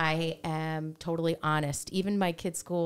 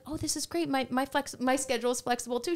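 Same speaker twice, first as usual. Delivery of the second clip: eager agreement; 7 semitones higher than usual. Retold or imitated. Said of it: "I'm like".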